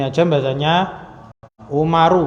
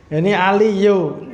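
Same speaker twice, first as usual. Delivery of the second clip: mock Javanese reading; 5 semitones higher than usual. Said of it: "Ini bukan bahasa Indonesia".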